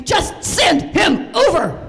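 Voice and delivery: loud slow pleading demand; frantic plea. Retold or imitated. Begging Meg to send Tommy, a loud slow plea. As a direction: beg for help urgently.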